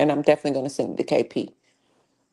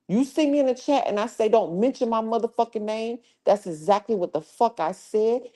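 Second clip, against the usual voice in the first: heated, rising cursing; angry rant; 3 semitones higher than usual. Real, not acted. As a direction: tell off a troll. Angry rant at chat member.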